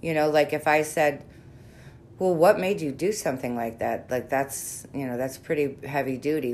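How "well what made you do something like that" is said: calm, caring question; measured concerned inquiry; gentle therapist tone. Shown as a demonstration. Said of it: "so much of your work is in your tone".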